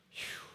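soft exhaled sigh of relief; relieved phew. Acted. Believer glad to have prayed beforehand, relieved exhale. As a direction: breathe out a quiet, acted phew.

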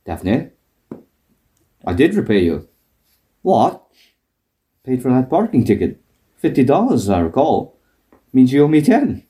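Frasier impression. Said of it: "and then Fraser goes".

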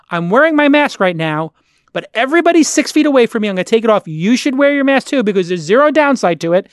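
exasperated, fast-flowing rant. Real, not acted. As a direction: go off on a heated rant, punching key words. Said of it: "I'll go off on the rant right now".

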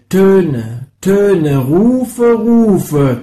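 climbing shouted calls; calling out. Acted. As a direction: call across a wide space. Sound poem, calls and cries.

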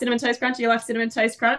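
high, quick eager offer; eager friends. Retold or imitated. Texan friends offering cereal to the guest, eager and high. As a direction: push it on her with a grin.

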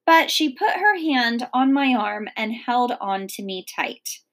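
lively read-aloud narration; expressive storybook reading; story narration. A narrator's reading. Reads chapter aloud.

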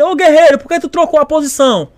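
acted-out instructor's telling-off; imitated instructor's shout. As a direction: call the recruit out sharply. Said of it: "falando, gritando".

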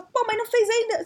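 can't believe it isn't done; indignant disbelief. Retold or imitated. Chefe indignado com o atraso. (chefe indignado, bem mais agudo)

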